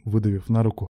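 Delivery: ordinary delivery, nothing marked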